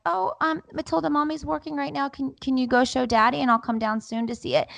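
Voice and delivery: high, sing-song mommy voice; placating mom. Retold or imitated. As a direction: gently put off a small child. Voices herself placating the child.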